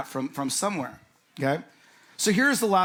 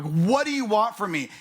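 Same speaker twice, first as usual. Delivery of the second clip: exasperated demo; 4 semitones higher, 3 dB louder than usual. Retold or imitated. Pastor re-showing the congregation his exasperated question. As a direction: re-enact the cry of frustration. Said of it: "I said it like that with my hand".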